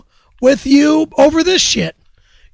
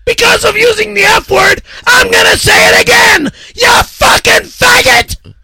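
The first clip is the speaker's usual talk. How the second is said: higher shouted rant; 5 semitones higher than usual. Acted. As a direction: keep ranting at the mic.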